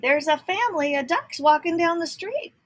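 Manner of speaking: a policeman excitedly telling headquarters; policeman on the phone. A narrator's reading. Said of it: "He called Clancy at headquarters and said".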